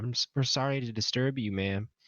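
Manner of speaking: sugary, cute, high little voice. A player's character runs up to a woman, speaking in a cute wide-eyed voice. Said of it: "really cat cute voice and like wide eyed say".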